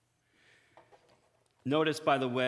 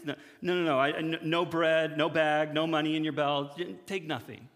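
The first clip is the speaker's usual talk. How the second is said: insistent Jesus; 2 semitones higher, 4 dB louder than usual. Retold or imitated. Jesus voiced insisting on nothing.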